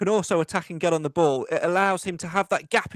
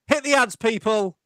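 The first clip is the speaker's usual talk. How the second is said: calling out; 5 semitones higher, 4 dB louder than usual. Acted. Host calling to break.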